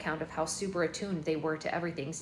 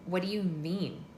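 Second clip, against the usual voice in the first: demanding; slower than usual. Acted. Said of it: "I demanded".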